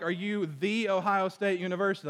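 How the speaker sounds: "the" said as an emphatic "thee"; stress on THE. Shown as a demonstration. Preacher likening the question to a university's name, stress on "the". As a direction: lean on the word "the", pronounced "thee". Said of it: "there's an emphasis on the word".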